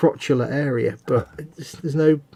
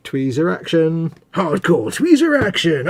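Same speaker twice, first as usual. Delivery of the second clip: booming trailer-announcer read, slow; mock advert voiceover; 2 semitones higher, 4 dB louder than usual. Hammy announcer plugging a product to viewers. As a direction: sell it like a cheesy TV ad.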